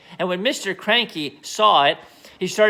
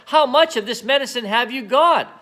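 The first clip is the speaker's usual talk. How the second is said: eager; 6 semitones higher, 3 dB louder than usual. Acted. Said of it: "Mister Cranky shouted".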